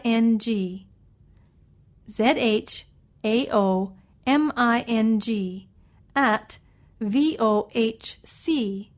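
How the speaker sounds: slow letter-by-letter spelling; dictating. Shown as a demonstration. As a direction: spell it out for listeners. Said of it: "let me spell that for you".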